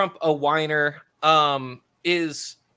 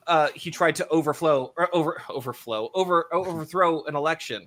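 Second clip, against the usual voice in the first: stumbling stutter over words. Real, not acted. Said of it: "my stuttering's coming out".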